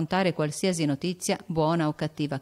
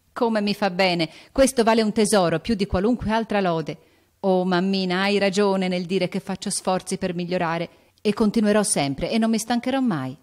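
joyful emotion; 3 semitones higher, 4 dB louder than usual. Acted. Jo moved by mother's letter.

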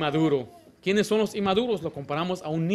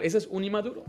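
usual speaking voice

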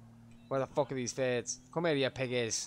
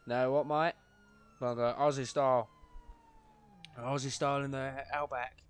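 attempted Aussie accent, off the mark; bad Australian accent. Streamer trying Aussie style, poor Australian accent. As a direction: have a loose go at an Australian accent. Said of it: "that was not an Australian accent".

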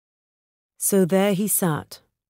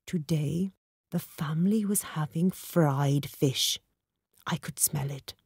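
softer, eager hush; eager whisper; 6 dB quieter than usual. A narrator's reading. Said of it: "Varma whispered eagerly".

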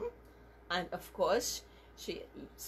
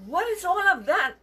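higher, mock-surprised child; feigned innocence; 8 semitones higher, 7 dB louder, slower than usual. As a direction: act like you've never seen the mess. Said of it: "Daryl pretended not to know".

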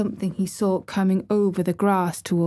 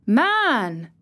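low quick cry; 4 semitones higher, 3 dB louder than usual. A narrator's reading. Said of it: "they both cried in low, quick voices".

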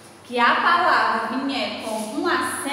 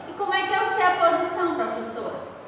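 lightly voiced pupil, quick and higher; imitated pupil question; 4 semitones higher, much faster than usual. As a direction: ask it quickly, as a pupil asking the teacher. (imitando de leve um aluno perguntando, rápido)

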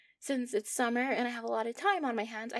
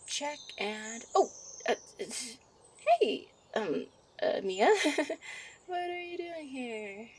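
a gentle witch fussing over her sweetheart; a hint of a bubbly witch girlfriend; young witch character.

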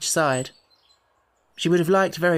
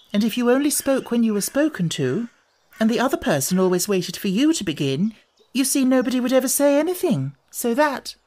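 higher-pitched, insistent reasoning; argumentative; 9 semitones higher, 3 dB louder than usual. A narrator's reading. Alice disputing the Queen's rule, argumentative. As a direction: argue the point eagerly, pitch climbing. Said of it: "always ready for a little argument".

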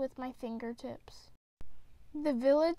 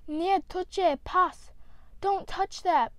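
a father's loud, sharp warning, pitched up; 5 semitones higher, 6 dB louder, slower than usual. Acted. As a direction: snap it out to stop a child grabbing a tool. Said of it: "Papa warned".

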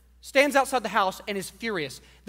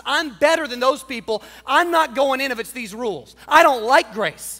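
proud declaration; 6 dB louder than usual. Acted. Older brother's proud speech.

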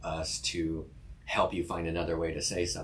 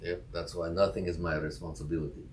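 put-on Russian accent. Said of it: "you do Russian accent better".

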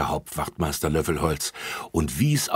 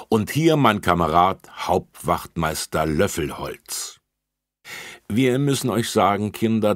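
a hint of a friendly officer, louder; officer asks the children for help, louder; policeman addressing children; 3 semitones higher, 4 dB louder than usual. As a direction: speak up like a kind officer.

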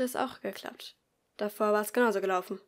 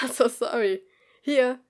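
louder, apologetic call from across the room; 2 semitones higher, 10 dB louder, slower than usual. Acted. Pupil calls out from across the classroom, louder. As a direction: answer from the back of the class. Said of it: "rief in diesem Moment jemand".

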